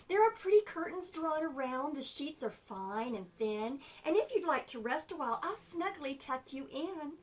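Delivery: spider voice. Acted. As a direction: coax the tired fly. Spider coaxing.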